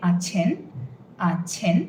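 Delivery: "আছেন" with a breathy aspirated ch. Shown as a demonstration. Teacher modelling aspirated ch for learner. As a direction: push air through the ch in "আছেন". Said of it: "has a lot of air coming through".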